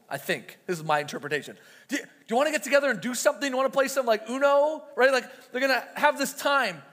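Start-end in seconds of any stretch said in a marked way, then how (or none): 1.9-4.8 rushed, eager pleading, much faster; eager begging. Retold or imitated. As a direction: tumble the words out like a hopeful fan. Crowd eagerly begging Jesus.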